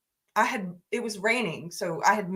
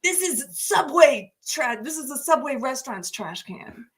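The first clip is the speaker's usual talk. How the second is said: mock angry yell; 4 semitones higher than usual. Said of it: "They were mad and yelling".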